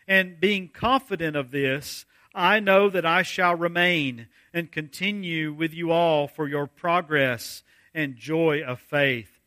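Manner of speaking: measured, formal Bible reading voice; scripture reading. Acted. Pastor reading Philippians to the congregation, solemn reading. Reads scripture aloud before preaching.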